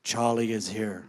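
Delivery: low, solemn medium voice; mock spooky medium. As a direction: lightly intone it like a psychic in a trance. Spiritualist reports from the attic.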